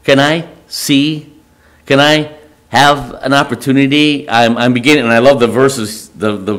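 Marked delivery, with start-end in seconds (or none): 0.0-4.3 halting, mildly pleading questions. Acted. Moses asking God for a second chance, pleading. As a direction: plead gently, pausing between attempts. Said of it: "Moses is basically pleading".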